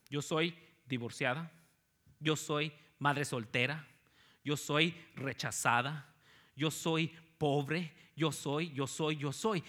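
slow, rising, dragged-out list of labels; a hint of a worn-down woman listing her labels; lightly voiced tired woman repeating "I am"; weary self-labelling. Quoting the burdened woman.

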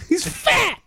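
high, mock-furious yell; Scott Steiner outburst. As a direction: burst out as the wrestler who won't calm down. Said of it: "Scott, calm down".

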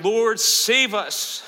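slow, drawn-out call for help; restrained shout. Acted. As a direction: call out slowly, holding back.

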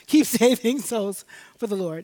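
put-on voice of a proud church mother; mock mother voice. Pastor mimicking her mother's pastoral advice. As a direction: play the mother, half teasing. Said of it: "That's what mothers tell you when you're a pastor".

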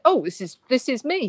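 quoting the security guy's first reaction, rising in surprise; amused surprise. Retold or imitated. Security guy hearing his own script, surprised and pleased. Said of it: "Just with a bit more punctuation".

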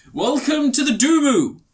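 grand welcome. Retold or imitated. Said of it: "he goes".

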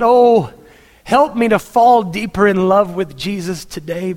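pleading prayer that swells and sinks; heartfelt prayer. Shown as a demonstration. Models a personal prayer.

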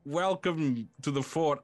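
high, eager, lonely voice; a lonely fort gushing over its first guests; talking fort. Acted. Lonely fort welcomes the party, high and eager.

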